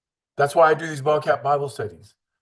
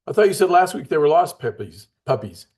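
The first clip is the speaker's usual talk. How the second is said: louder and higher in disbelief; incredulous; 5 semitones higher, 5 dB louder than usual. Retold or imitated. Man calls out the kid's changed story, louder in disbelief. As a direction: catch the kid in a contradiction. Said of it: "He goes".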